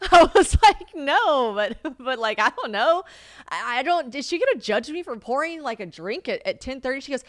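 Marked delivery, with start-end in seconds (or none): 0.9-7.0 louder, higher, stumbling worry; mock-panicked questioning; flustered retold protest. Retelling her flustered reply to mom.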